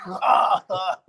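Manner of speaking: put-on guffaw in open "ah"s; hammed-up fake laugh; imitated mobster laughter. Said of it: "started laughing".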